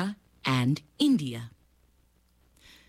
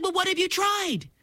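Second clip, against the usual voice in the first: higher questioning mother voice; crocodile mother; 13 semitones higher than usual. Acted. Mother asks her son what he tried, higher voice. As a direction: ask it like a patient mom. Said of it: "His mother said".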